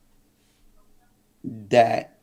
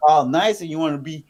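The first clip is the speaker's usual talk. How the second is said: imitating her jealous rant, pitched up; higher, indignant quoted complaint; retold anger; 5 semitones higher, faster than usual. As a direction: act out her fed-up accusation. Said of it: "she was so mad".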